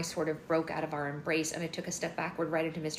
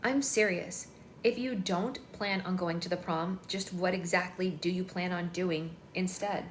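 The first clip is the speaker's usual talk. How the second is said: princessy voice. Acted. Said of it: "in my most princessy voice".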